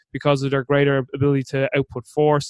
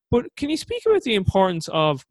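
high-pitched voice; 4 semitones higher than usual. Real, not acted. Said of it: "my voice went so high pitched there".

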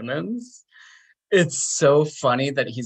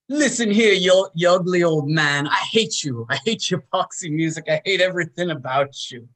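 high, forceful opening, settling into scorn; mock-hostile tirade, starting high and loud; angry rocker rant; 5 semitones higher, 3 dB louder, faster than usual. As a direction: spit insults at a rival, acted out. Acted band quarrel, Billy insulting old man.

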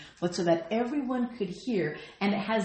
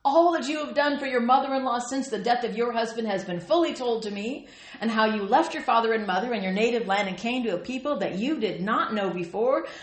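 enthusiastic, raised voice; 3 semitones higher, 4 dB louder than usual. Acted. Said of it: "what he says with enthusiasm in his raised voice".

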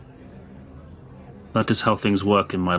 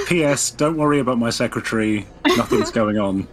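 laughing; 2 semitones higher than usual. Acted. Playful in-character telegram postscript.

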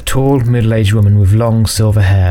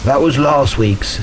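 less formal tone; 5 semitones higher, slower than usual. Acted. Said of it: "in a rather less formal tone".

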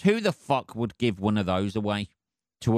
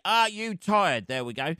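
mock announcer reading a turkey advert; 3 semitones higher than usual. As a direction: sell it like a cheesy TV commercial. Starts reading a sponsor ad.

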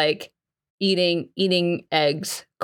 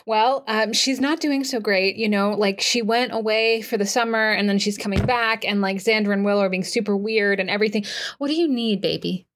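startled babble. Acted. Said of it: "completely jumps and is like".

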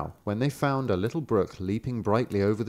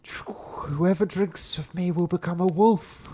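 higher, slow brook voice; talking brook; 8 semitones higher, slower than usual. A narrator's reading. Second brook warning the sister, higher and slow. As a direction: draw out the warning slowly. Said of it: "heard this also say".

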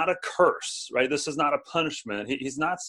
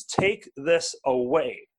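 pleading; slower than usual. Pretend. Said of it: "He implored God three times".

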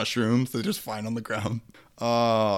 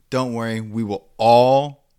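mock solemn; 4 dB louder, slower than usual. Mock cult reassurance.

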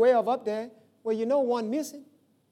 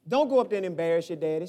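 lower, fast motherly warning; lightly voiced mama warning her boy; a hint of mama; 5 semitones lower than usual. Mama warning her son before school, lightly voiced and lower. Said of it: "She used to say that all the time".

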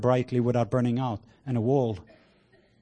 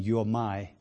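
tender Father's voice; 3 semitones lower, slower than usual. Retold or imitated. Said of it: "the voice of the Father saying".

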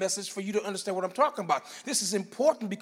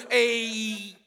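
a loud drawn-out nah, dropping into a loud no; hard nah; 7 dB louder, much slower than usual. Shown as a demonstration. Preacher acting out a street-style refusal, loud scoff. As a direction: scoff it away. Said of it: "give a hard no".

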